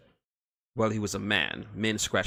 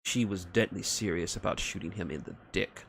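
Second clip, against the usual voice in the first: ordinary delivery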